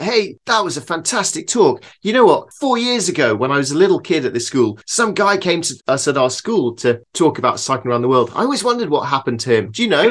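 lightly voiced tall teen, keen; excited teenage kid. Teen boy thrilled to tell the visiting cyclist. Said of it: "he's like".

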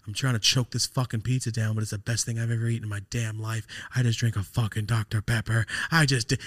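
imitating an excited friend, slightly lifted; hyped up. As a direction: retell his hyped-up bragging with mild excitement. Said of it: "He's, like, all hyped up".

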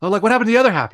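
high, loud disbelieving question; incredulous. Retold or imitated. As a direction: ask in shocked disbelief.

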